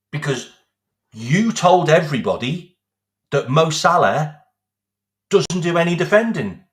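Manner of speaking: loud accusing rant. Real, not acted. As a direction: raise the voice, accuse him. Ranting at the manager.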